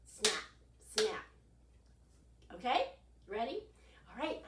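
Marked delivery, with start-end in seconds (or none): 0.1-1.2 short snapped 'Snap'; snap sound effect. Shown as a demonstration. Showing the kids the alligator snap again. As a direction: clap it out like a jaw. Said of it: "Can you do this with your arms".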